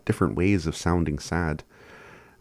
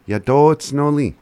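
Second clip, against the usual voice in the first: Yadotsnoli called out high and loud, bright and cheerful; happy demo; 8 semitones higher, 8 dB louder than usual. Shown as a demonstration. Teacher showing learners how to sound happy. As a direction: belt Yadotsnoli out like you're delighted. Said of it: "to sound happy".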